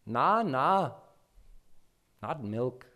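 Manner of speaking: put-on fussy toddler turning down milk; refusing child. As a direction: wave the offer away like a fussy child.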